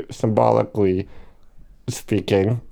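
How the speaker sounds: talking through hiccups; speech broken by hiccups. Real, not acted. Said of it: "I have the hiccups".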